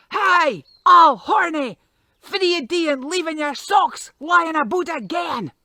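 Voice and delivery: loud, high scolding yell; wife bawling at her husband about his socks; shouting at the top of her voice. Acted. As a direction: yell at him across the hillside. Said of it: "with the top of her voice, shouted out".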